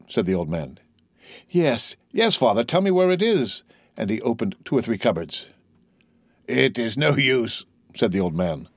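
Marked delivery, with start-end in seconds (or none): 1.5-3.6 put-on high, urgent young man; insistent young son. Son insists on finding wine. 6.5-7.6 slow, lightly voiced old man; weary old father. Weak old man gives up.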